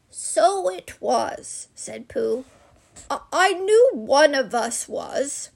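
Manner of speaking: drawn-out, slightly puzzled bear; slow dawning Pooh. Acted. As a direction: let it sink in slowly. Pooh agrees slowly.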